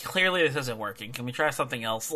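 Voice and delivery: mildly exasperated, giving up on it; mock exasperation. Wrestler tired of blocking the same move, mildly exasperated. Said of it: "he's just exasperated".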